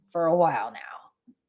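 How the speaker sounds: breathy whisper, trailing off; rueful whispered aside. Real, not acted. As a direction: whisper it under your breath. Aside on slow progress.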